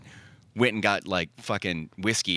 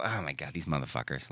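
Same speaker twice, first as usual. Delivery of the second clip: exasperated grumble; 7 semitones lower, 10 dB quieter than usual. Retold or imitated. Retold inner grumble.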